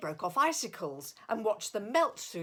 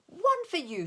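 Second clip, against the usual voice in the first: high, louder happy squeal; 10 semitones higher, 5 dB louder than usual. A narrator's reading. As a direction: squeal with delight. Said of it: "she squealed".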